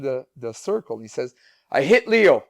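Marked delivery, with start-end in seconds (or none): 1.7-2.4 imitating young son. Son confessing in hula hoop.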